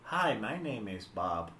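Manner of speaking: slow, deliberate test sentence; measured, spaced-out dictation. Shown as a demonstration. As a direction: say it slowly for a translation app. Dictates test sentence to translation app.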